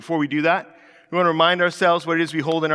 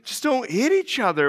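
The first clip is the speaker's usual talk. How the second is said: exhausted; 5 semitones higher than usual. Retold or imitated. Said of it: "sitting there exhausted by this".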